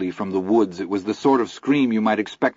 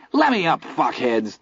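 much higher, struggling hiss; angry hiss; 6 semitones higher than usual. A narrator's reading. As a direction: spit it out while struggling. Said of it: "Teddy hissed, struggling".

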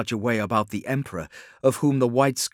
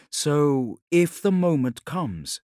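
higher woman's voice; questioning Ilya; 5 semitones higher, slower than usual. Acted. Ilya begins to test the Khan's resolve, higher and intent. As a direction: raise the pitch, pressing the question.

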